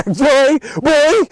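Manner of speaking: high, punchy mock shout, word by word; re-enacted angry shout. Worker confronting coworker who called him boy, high angry shout. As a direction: fire it off loud and high.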